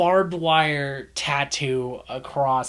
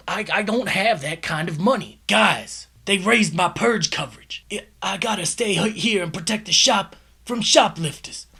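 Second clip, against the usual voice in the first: mock worried deli owner; 5 semitones higher, 3 dB louder than usual. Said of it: "the phone call plays out like this".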